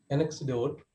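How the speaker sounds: "Anecdote" repeated alone as the correction; corrected pronunciation. Shown as a demonstration. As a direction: say "Anecdote" with a k sound, set apart. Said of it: "I pronounced one word wrong".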